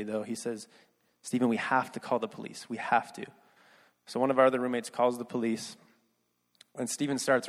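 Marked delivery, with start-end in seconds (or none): 1.2-3.3 retold gently, a little softened; a touch of quiet tenderness, restrained; quiet and tender. Roommate telling Stephen they must call police, quietly tender. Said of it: "very quietly and tenderly".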